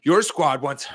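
high, slow Western gold miner twang; Antonio Brown impression. Podcaster mimics Antonio Brown's video while doing high knees, twangy impression. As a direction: do Antonio Brown like an old prospector, panting. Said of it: "what Pete would sound like doing an Antonio Brown impression".

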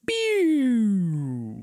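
falling pew zap; a descending sci-fi power-down pew; power down sound effect. Shown as a demonstration. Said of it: "that sound effect that I just did there was the power down sound effect".

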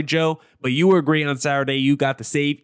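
ordinary delivery

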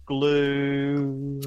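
very slow, drawn-out robotic line; Jetsons impression. Friend does a Jetsons voice for the group, slow and drawn out. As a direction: stretch each word like a cartoon robot. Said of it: "No, I said".

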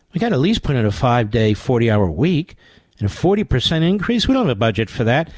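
a hint of a stingy boss; lightly voiced boss brushing off staff; mock boss. Candidate telling his own staff no, lightly voiced mock boss.

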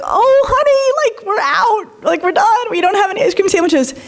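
high, sing-song apologetic lady voice; a sweet helper letting a child down gently; sugary school volunteer. Retold or imitated. School volunteers telling a five-year-old they're out, high and sugary. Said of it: "these women are like".

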